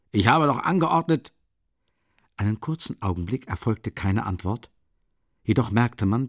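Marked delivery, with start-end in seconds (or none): 0.1-1.3 higher, irritated reproach; angry call. A narrator's reading. Porfiri scolding the people at the door, annoyed. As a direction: remind them sharply of his orders. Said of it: "rief Porfiri Petrowitsch ärgerlich".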